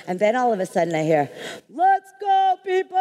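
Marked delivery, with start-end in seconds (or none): 1.7-3.0 high, loud commanding call; Oprah's voice. Retold or imitated. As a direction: bark the order to the whole lobby. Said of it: "That's Oprah's voice".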